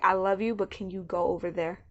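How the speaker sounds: soft, gentle, trailing request; gentle brush-off. Retold or imitated. Partner to pregnant spouse, softly asking for space. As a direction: let them down easy, softly.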